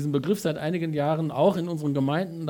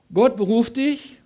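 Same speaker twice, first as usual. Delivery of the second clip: loud, high, slow declaration; emphatic preaching; 7 semitones higher, 7 dB louder, slower than usual. Acted. Preacher declaring to the congregation, loud, high and slow. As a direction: hammer home God's call.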